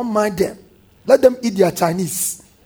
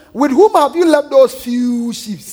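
slow mock question, slightly raised; 3 semitones higher than usual. David's doubters question him about the sheep, mocking. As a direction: retell a taunt, drawing it out. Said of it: "they said it mockingly".

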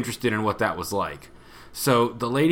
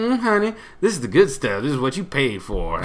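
a hint of a sassy nurse; 2 semitones higher than usual. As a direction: put some sass on it, honey. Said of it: "she was sassy".

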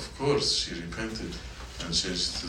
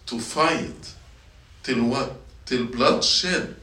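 emphatic preaching; 5 semitones higher, 5 dB louder, slower than usual. Real, not acted. Preacher drives home Paul's point.

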